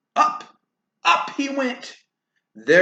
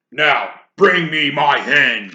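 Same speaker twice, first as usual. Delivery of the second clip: loud commanding order; 8 dB louder than usual. Acted. Giant ordering wife to bring the hen, loud. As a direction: boss the wife. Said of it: "he ordered".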